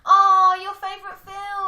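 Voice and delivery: loud, high delighted cry; excited exclamation. Real, not acted. Co-host hears the friend's favourite film named, excited exclamation.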